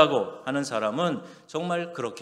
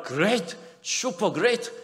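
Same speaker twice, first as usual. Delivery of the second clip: high, bright and loud exclamation; excited; 9 semitones higher, 4 dB louder, much slower than usual. Shown as a demonstration. Preacher modelling the joyful answer for the children, excited. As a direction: burst out with joy. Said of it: "이렇게 대답하래요".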